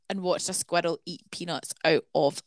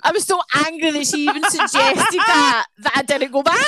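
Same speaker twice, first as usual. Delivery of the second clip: higher and louder through laughter; laughing, a touch higher; 7 semitones higher, 5 dB louder than usual. Real, not acted. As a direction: giggle out the admission. Laughing at her own anger.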